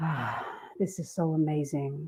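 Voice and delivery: relaxed, very low, very soft hushed murmur. Speaker demonstrating playing the voice like an instrument, dropping back down low. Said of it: "you can come right back down".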